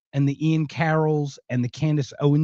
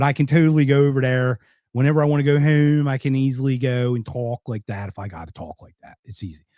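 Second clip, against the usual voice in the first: Philly accent; 3 semitones lower than usual. Shown as a demonstration. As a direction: slip into a Philadelphia accent. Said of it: "I know the Philly accent".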